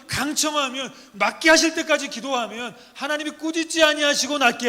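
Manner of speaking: loud, driving sermon cadence; preaching at full force. Acted. Preacher urging the congregation to pray, full-force preaching. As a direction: hammer the promise home to the congregation.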